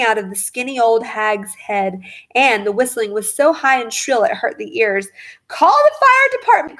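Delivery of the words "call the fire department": much higher, louder call for help; frantic cry. A narrator's reading. Wife panicking over steaming grandma, frantic cry. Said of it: "cried Missus Cranky".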